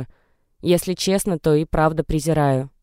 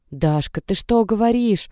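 higher, slowed horrified question; horrified gasp; 6 semitones higher than usual. A narrator's reading. Natasha recoils in horror at Dasha's words, rising high. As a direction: recoil in horror at what she hears. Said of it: "С ужасом отпрянула от неё Наташа".

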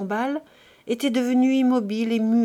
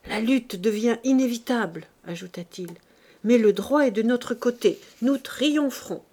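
more vibrant voice. Acted. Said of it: "s'animant d'une voix plus vibrante".

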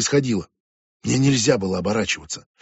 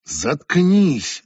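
cutting her off; 3 semitones higher, 3 dB louder than usual. Acted. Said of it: "обрывает её Джули".

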